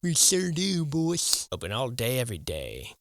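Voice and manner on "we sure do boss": high, louder goofy henchman reply; silly sidekick voice. Pretend. Lackey answering his boss, high goofy voice.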